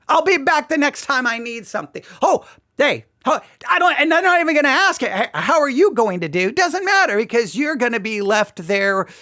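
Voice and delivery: breezy, dismissive partner talking down; careless brush-off. Acted. The uncaring partner waving goodbye, breezy and dismissive. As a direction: toss it off like you're already out the door.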